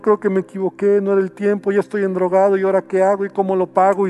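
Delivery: run-on, mildly woeful pleading; mock regretful fretting; rueful lament. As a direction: act out a sheepish confession to God. Regretful believer voiced in prayer.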